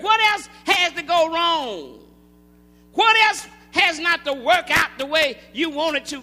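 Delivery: insistent sermon questions; emphatic preacher's cadence; preaching. Acted. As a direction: press each point on the congregation. Preaches at full force.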